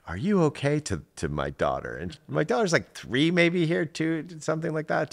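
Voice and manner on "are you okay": high-pitched, lifted voice of a concerned stranger; imitated concerned old lady. Old lady checking on the daughter, high concerned imitation. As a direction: check on a small child in a high voice. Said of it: "this old lady is like".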